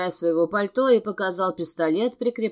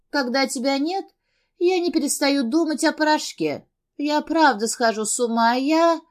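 tearful confession; 7 semitones higher than usual. A narrator's reading. Crying addict confessing to Gabriel.

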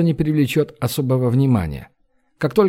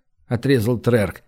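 plain reading voice

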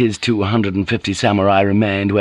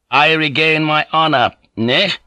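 higher, resolute character voice; unyielding young lord Naga; 7 semitones higher than usual. Acted. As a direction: pronounce a death sentence, unmoved.

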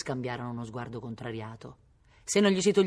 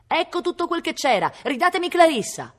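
molto più acuto e forte, trafelato; grido affannato e impaziente; 14 semitones higher, 8 dB louder than usual. Acted. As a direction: arriva di corsa reclamando il libro. Brigand runs back for his book. (richiamo concitato e acuto)

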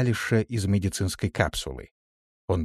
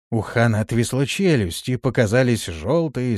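ordinary delivery, nothing marked

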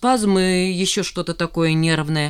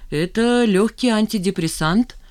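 kindly; 5 semitones higher, 4 dB louder than usual. A narrator's reading. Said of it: "доброжелательно произнёс Сидоров".

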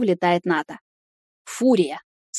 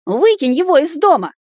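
high, loud furious yell; 9 semitones higher, 5 dB louder than usual. Acted. Nata yells at Timur to throw the boy out, furious. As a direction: scream the order at him. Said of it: "заорала она".

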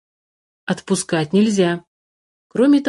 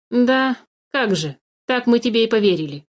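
mocking smirk; 3 semitones higher than usual. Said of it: "усмехнулся подменыш".

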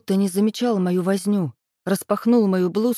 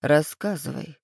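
low, lightly purred coaxing; a hint of menacing gentleness; almost tender purr; 3 semitones lower than usual. A narrator's reading. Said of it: "почти ласково проурчал Демид".

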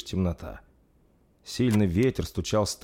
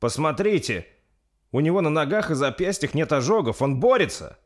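higher, urgent amazement; pitched-up excited exclamation; excited discovery; 8 semitones higher, 4 dB louder than usual. Acted. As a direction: call everyone to see a hopeful sign. Amazed discovery amid the crisis.

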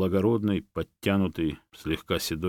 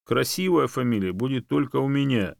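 bear barks; 6 semitones higher, 4 dB louder than usual. A narrator's reading. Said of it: "неожиданно рявкнул медведь".

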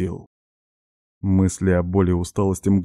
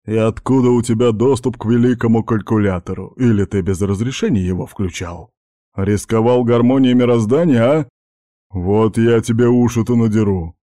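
mildly louder, growing scolding; heated baritone; 3 semitones higher, 4 dB louder than usual. Acted. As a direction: scold like a strict head teacher. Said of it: "Баритон всё больше распалялся".

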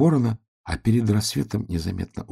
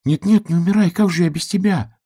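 high, pleading piglet voice; 11 semitones higher, 3 dB louder than usual. A narrator's reading. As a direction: beg him not to die, up high. Piglet begs dying raven.

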